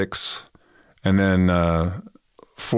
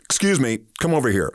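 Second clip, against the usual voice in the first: higher-pitched mock-stern official call; stern summons; 4 semitones higher than usual. Receptionist pulls him out of the queue, stern. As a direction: call someone out of line sternly. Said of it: "like, real stern look and says".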